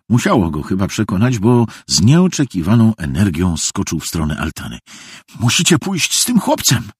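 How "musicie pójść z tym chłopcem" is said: urgent, high-pitched call. Acted. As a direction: call out an instruction, voice raised in pitch. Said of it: "zawołał". (naglące zawołanie)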